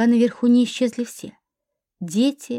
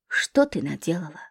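hoarse question; 7 semitones lower, 6 dB quieter than usual. Acted. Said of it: "хрипло спросил он".

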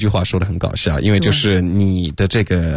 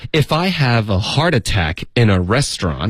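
acted sarcastic setup; lightly acted snide line; Rachel's snide comeback; 2 semitones higher than usual. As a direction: tease as if making a pointed promise. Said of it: "Rachel其实她就又精神分裂了".

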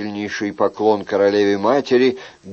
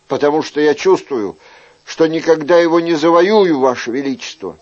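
put-on higher-pitched, earnest young suitor; ardent young courtier; 4 semitones higher than usual. Young man tells the king of hopeless love, ardent. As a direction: plead your case to the king in a raised voice.

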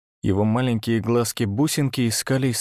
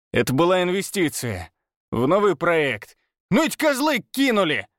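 high, heated justification; angry excuse; 6 semitones higher than usual. Acted. Pavel justifying the loss to Oleg, angry excuse. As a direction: defend it hotly.

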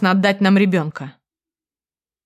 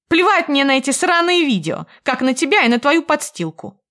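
high, loud contemptuous shout; яростный крик; angry outburst; 7 semitones higher, 4 dB louder than usual. A narrator's reading. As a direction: let all the rage out at him. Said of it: "Больше не могла скрывать своих эмоций".

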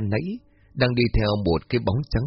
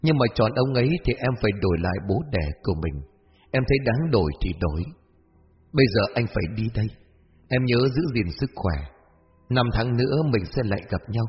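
lightly voiced gentle young man. Mysterious young man bidding Hoa farewell, gently understated.

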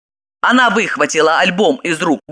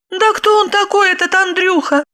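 confused question; 13 semitones higher than usual. Acted. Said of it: "растерянно спросила она".

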